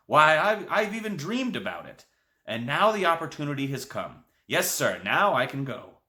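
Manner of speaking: high and loud, nearly shouting; excited near-shout. A narrator's reading. Grandpa tells the boy his dream, excited near-shout. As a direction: burst out with lifelong longing. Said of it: "and almost shouted".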